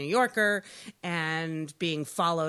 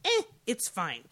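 indifferent shrug; 4 semitones higher than usual. Acted. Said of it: "nobody's gonna watch the show and say".

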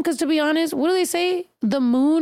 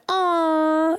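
put-on drawn-out, higher girly aww; imitated cooing; 4 semitones higher than usual. Imitating girls hearing her star sign, imitated cooing. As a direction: coo it like you're imitating smitten girls. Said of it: "girls be like".

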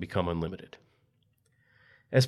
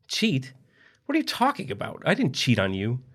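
much higher, frantic denial; panicked denial; 5 semitones higher than usual. Acted. Trapped husband denying he cheated, high and frantic. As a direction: plead your innocence.

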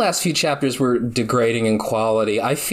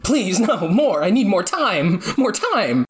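rising desperate plea; pleading; 5 semitones higher than usual. Retold or imitated. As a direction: beg for more, half joking. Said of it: "started getting angry".

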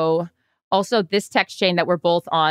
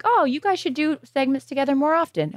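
mock fan gush; 7 semitones higher than usual. Quoting people who text them.

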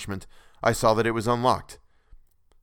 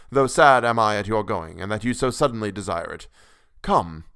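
sweet courtesy; 3 dB louder than usual. Acted. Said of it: "said with a sweet courtesy".

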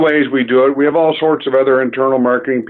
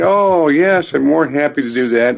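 eager to please; 2 semitones higher than usual. Retold or imitated. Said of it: "delivering genuine hospitality".

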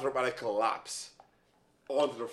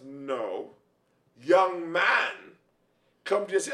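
stern mother; slower than usual. Retold or imitated. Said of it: "she goes".

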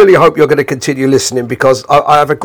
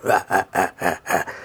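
low, soft mock chuckle; imitated chuckle; 8 semitones lower, 10 dB quieter than usual. Lol sneaking back with the coleslaw, imitated low chuckle. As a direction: mimic a sly laugh, pitched down and quiet. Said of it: "he's gone back laughing".

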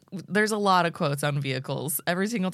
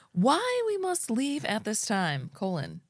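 Glenody voice; 5 semitones higher, slower than usual. Acted. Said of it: "your best Glenody voice".

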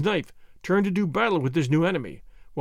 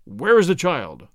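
slow, louder menacing demand; growled; 5 dB louder, slower than usual. A narrator's reading. Tarzan demanding of the wounded Swede, a growl. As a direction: press him, cold and slow. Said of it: "growled the ape-man".

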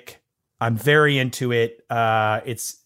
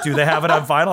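laughing quote; much faster than usual. Retold or imitated. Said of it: "You're like".

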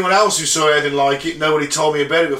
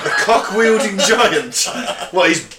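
laughing disbelief; 4 semitones higher, slower than usual. Real, not acted. Disbelief at rude giant joke.

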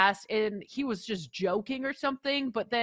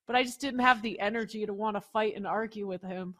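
ordinary delivery

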